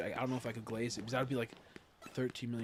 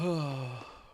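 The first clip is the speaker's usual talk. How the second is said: drawn-out yawn sound; 3 dB louder than usual. Real, not acted. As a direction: yawn through it. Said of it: "Sorry, I was yawning".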